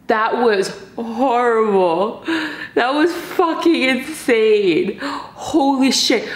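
slow, drawn-out disbelief; slow stunned awe. Real, not acted. Stunned after spicy noodle challenge.

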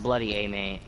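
"bloody A, mate" repeated in a near-plain voice; lightly voiced Aussie phrase; Australian accent, toned down. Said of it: "Oh, that's not even Australian".

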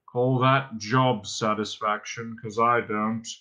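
slow, gloomy monotone; droning robot. A narrator's reading. Robot complaining about his menial order, droning gloomily. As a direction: drone on, put-upon and joyless. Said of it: "he droned".

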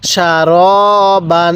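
সারবান with a short "sha", then a long drawn-out "ro"; short first syllable. Shown as a demonstration. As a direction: recite সারবান slowly, not stretching the sheen. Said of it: "এই শিনের মধ্যে টান দিব না".

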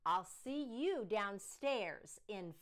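stern father. Acted. Father losing patience.

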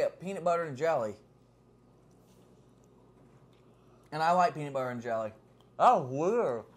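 chewing while talking; words muffled by food; mouth full of pizza. Real, not acted. Seen 0: Woman in blue takes slice, bites pizza from 9.5s while speaking.

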